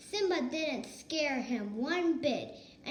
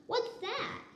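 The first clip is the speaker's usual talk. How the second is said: high, alarmed what's that; startled question; 10 semitones higher than usual. A narrator's reading. Nala hearing a strange noise, startled and high. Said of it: "asked Nala".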